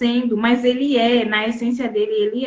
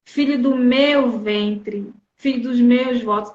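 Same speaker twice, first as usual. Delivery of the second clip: tender slow mother; slower than usual. Retold or imitated. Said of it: "olha como ela falou assim".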